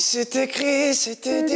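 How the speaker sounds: airy, breath-heavy singing voice; breathy voice. Pretend. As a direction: let lots of air through the words. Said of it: "je prends une voix soufflée comme ça".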